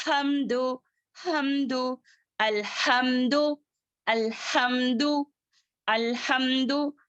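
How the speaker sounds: हमदो with breath flowing freely through the H; breathy throat H. Shown as a demonstration. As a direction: let air run through the throat in अलहमदो. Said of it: "सांस अच्छे से जारी होना है".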